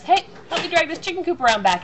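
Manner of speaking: cheerfully demanding like a tipsy husband; husband's request. Retold or imitated. Wife imitating her husband asking for help, loud and cheery. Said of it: "the hubster says".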